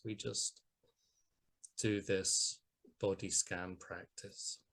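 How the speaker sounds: unhurried body scan guidance, long pauses; guided meditation. Acted. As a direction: guide listeners gently through the body, leaving space between phrases.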